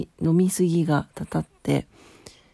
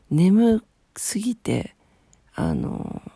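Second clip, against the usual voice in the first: drowsy whisper; half-asleep, slow and barely voiced; sleepy; 3 semitones higher, much slower than usual. Real, not acted.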